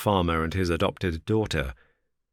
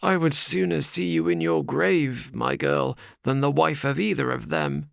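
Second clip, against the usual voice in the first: higher, earnest vow; lightly voiced old father; 9 semitones higher than usual. Ferrier to his daughter, a higher earnest vow. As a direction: swear it to his girl.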